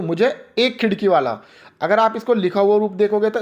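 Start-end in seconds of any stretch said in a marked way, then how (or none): 0.0-1.4 single out एक खिड़की with emphasis; stress on एक खिड़की. Shown as a demonstration. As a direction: put a little extra force on एक खिड़की. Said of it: "इस बात पर थोड़ा सा जोर दे दूँ".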